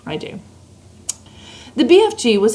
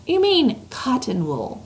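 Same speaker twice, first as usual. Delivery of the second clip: put-on higher voice for a young girl; a light, lifted girl's voice; little girl voice; 5 semitones higher, 3 dB quieter than usual. Reads Sophie's lines.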